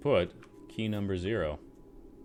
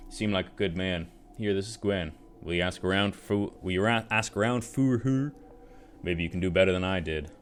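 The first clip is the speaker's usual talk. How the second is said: put-on drunk soldier voice. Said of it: "rummy drunk soldier voice".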